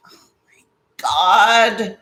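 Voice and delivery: slow breathy whispered groan; exasperated whisper. Real, not acted. Vlogger whispering in exasperation at the broken fan. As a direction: sigh out the words, no voice.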